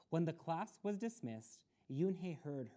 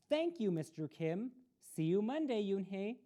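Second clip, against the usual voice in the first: higher, louder cheerful farewell; cheerful goodbye; 6 semitones higher, 6 dB louder than usual. A narrator's reading. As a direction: wave goodbye brightly.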